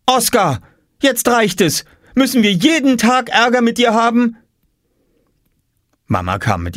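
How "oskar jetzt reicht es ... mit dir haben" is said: high, exasperated telling-off; scolding mother. Acted. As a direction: scold the boy, fed up. Mother scolds her son. (aufgebracht schimpfende Mutter, hohe Stimme)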